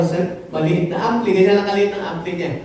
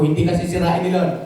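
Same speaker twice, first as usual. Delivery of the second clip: reassuring; 5 semitones lower than usual. Shown as a demonstration. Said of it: "Sabi mo sa katabi mo".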